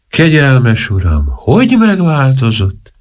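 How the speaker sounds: slow, high, drawn-out wail of pity; sad lament. A narrator's reading. Porter's wife sees the changed minister, sad and drawn out. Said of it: "mondta szomorúan a portás felesége".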